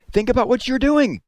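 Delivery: high, loud desperate cry; a frantic high-pitched cry. A narrator's reading. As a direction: plead with the mob at the top of her voice. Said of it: "cried Miss Catherine".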